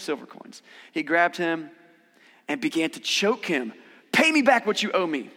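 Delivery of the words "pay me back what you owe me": loud, higher demand for payment. Acted. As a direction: insist on being paid back, forcefully. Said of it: "he demanded".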